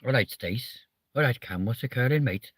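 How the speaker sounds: lilting mock Welsh greeting; put-on Welsh. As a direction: greet mates in a light Welsh accent. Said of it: "it does sound like a complete Welsh phrase".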